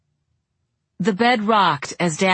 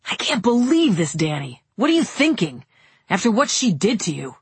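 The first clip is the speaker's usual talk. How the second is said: disbelief; 3 semitones higher than usual. Acted. Kevin protests in disbelief.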